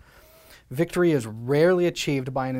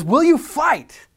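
a slow, much higher and louder challenge to the troops; William Wallace war cry; 12 semitones higher, 9 dB louder, slower than usual. Retold or imitated. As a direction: demand it of frightened soldiers. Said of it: "He says".

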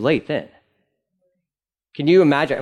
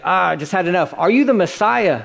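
frustrated high priest; 5 semitones higher than usual. Acted. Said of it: "High priest is frustrated".

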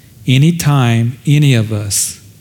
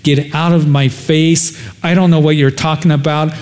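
cursing denial; 3 semitones higher than usual. Acted. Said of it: "cursing and he's swearing".

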